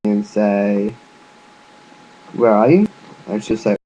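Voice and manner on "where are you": louder question with a rising end; raised, rising query; questioning call. Shown as a demonstration. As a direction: call the question out, lifting the last word. Demonstrates question asked to the character.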